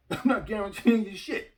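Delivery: amused insistence. Real, not acted. Amused, louder repeat of refusal.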